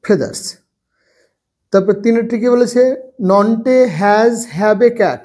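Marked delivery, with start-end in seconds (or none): 0.1-0.4 parrots have green feathers, lower and softer, spelling P A R R O T S; slow dictation with spelling. Shown as a demonstration. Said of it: "তার জন্য এটা হয়ে যাচ্ছে". 3.3-5.2 slow question. Shown as a demonstration. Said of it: "তাহলে নন্টে কি".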